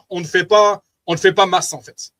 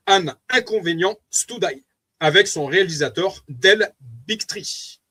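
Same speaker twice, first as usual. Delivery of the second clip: French-accented English titles; slower than usual. Real, not acted. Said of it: "Vous m'excuserez pour mon accent anglais".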